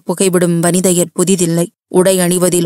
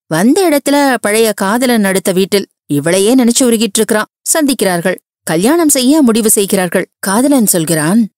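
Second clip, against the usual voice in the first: excited gushing; 3 semitones higher than usual. Acted. Ratna gushes about a film.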